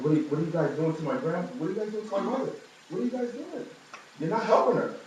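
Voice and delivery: a mother's frantic, high-pitched panicked questions. Retold or imitated.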